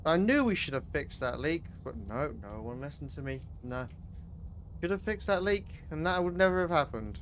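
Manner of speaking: loud grumbling. Acted. Complaining about the unfixed leak.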